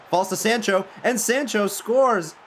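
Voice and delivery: high, loud, drawn-out shout of the goal; slow and soaring, like the stadium erupted; excited goal call. Real, not acted. Calling his sub's goal, high and loud with joy.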